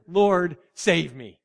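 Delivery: a sinking man's sudden plea; natural cry out. Retold or imitated. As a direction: cry it out straight from the gut. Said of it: "he cried out very naturally".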